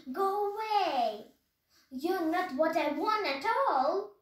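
high, loud shout; shrieking. A narrator's reading. Witch shrieking the turkey away. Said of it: "she shrieked".

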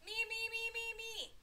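high, rapid-fire squeal of volunteering; eager shouting. A narrator's reading. Froggy begs to go first at circle time, shouting. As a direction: clamour to be picked first. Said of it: "Froggy shouted".

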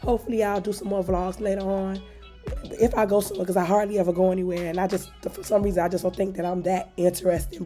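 hoarse, losing voice. Real, not acted. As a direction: speak with a worn-out hoarse voice. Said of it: "Sorry, my voice is gone".

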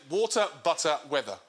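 American accent. Shown as a demonstration. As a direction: model the American water, butter, weather. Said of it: "I want you to say".

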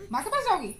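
high, loud coaxing question. Real, not acted. Asking toddler about going to mother. (बच्ची को ऊँची आवाज़ में फुसलाते हुए)

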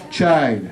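put-on child said with a clear ch and final d; model pronunciation. Shown as a demonstration. Teacher showing students the ch sound, clear model. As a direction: say child fully as "chaild". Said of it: "đọc với từ child".

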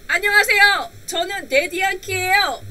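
exaggerated demo self-introduction; playing Daddy Yankee greeting. Shown as a demonstration. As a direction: greet the class big as the star.

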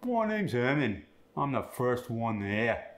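Herman said as "Huhman", R turned to UH; Cockney intro, medial R dropped. Shown as a demonstration. Student demos the Cockney medial R on Herman. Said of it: "medial R gets the uh sound".

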